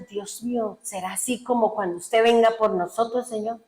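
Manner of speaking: soft, hushed retold prayer; tearful awe. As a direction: drop the volume right down, wondering aloud to God. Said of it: "y yo lloraba, y yo decía". (plegaria llorosa en voz baja, recreada)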